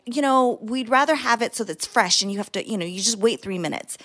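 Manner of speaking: imitating a curt, defensive brush-off. Wife retelling the restaurant manager to her husband, mildly defensive. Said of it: "she was so defensive".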